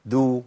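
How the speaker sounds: دو as a rounded "du"; dal with damma. Shown as a demonstration. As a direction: round the vowel after the d in دو. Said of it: "الدال المتحركة بضم".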